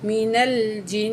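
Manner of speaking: مینل جن slowly with a nasal hum held on the n; ghunna. Shown as a demonstration. Teacher shows the nasal ghunna to students. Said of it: "نون میں جو ہے ہم غنہ کر کے پڑھیں گے".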